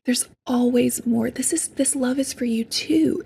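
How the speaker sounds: cradle the hurt part like a little sister; gentle loving whisper to her inner child; tender self-talk. Retold or imitated. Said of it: "and I'll say".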